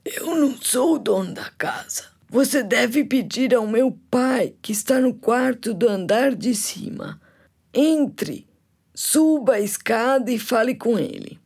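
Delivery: rouco e um pouco agudo; voz rouca. Acted. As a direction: velho de voz rasgada. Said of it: "com uma voz rouca". (voz rouca de velho)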